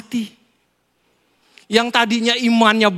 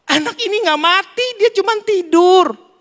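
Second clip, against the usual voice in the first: Jesus reassuring; 9 semitones higher than usual. Acted. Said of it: "Tuhan bilang apa?".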